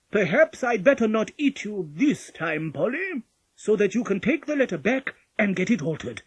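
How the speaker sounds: sad. A narrator's reading. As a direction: give in with loud regret. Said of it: "Then he said sadly".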